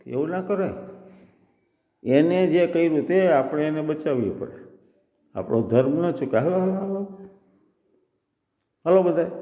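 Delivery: rally everyone to a rescue; urging elder squirrel. Acted. Old squirrel rallying the others. (બધાને હાકલ કરતી વૃદ્ધ ખિસકોલી, હળવો અભિનય)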